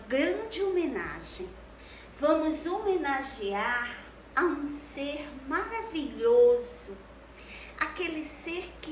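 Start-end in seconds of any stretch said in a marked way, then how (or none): none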